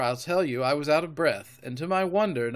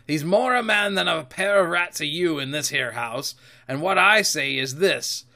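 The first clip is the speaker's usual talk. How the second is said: firm, emphatic pirate speech; lightly voiced sea dog in command; Silver, scornful captain; 5 dB louder than usual. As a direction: lay down the law to a cowed crew. Silver asserts his command.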